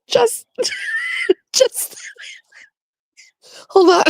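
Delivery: high squeaky words through helpless giggles; laughing too hard. Real, not acted. Trying to read friend's text aloud, breaking up laughing. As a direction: try to read but keep cracking up. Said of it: "she goes".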